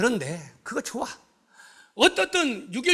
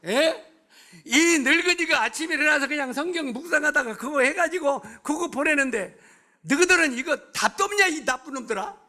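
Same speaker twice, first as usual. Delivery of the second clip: angry scolding; 4 semitones higher than usual. Retold or imitated. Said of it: "양희님이 화가 나가지고".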